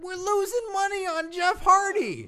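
very high, strained complaint; high-pitched exasperation. Acted. Host protests to co-host about losing money, exasperated. Host answers remark on sounding defeated.

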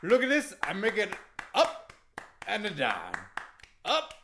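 loud, accented wrestler impression; boisterous broken-English wrestling champ; Iron Sheik. Wrestler guesting on a comedy show, hammy accented boasting. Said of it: "be careful with that Iron Sheik impression".

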